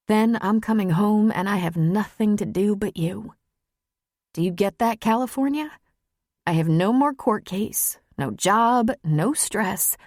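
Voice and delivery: lightly voiced woman pouring out her feelings; earnest Maggie after crying. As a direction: plead gently, just after a sniffle.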